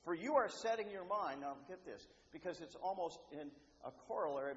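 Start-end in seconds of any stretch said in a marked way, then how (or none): 0.0-1.4 firm, loud retold command; very strong rebuke. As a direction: rebuke him strongly in a raised voice. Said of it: "Jesus rebukes him very strongly".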